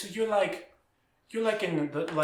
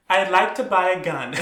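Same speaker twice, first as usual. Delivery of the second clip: laughing; 6 dB louder than usual. Retold or imitated. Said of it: "she was like".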